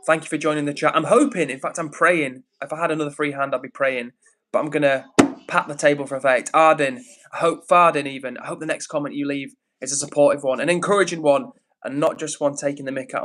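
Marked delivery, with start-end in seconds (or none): none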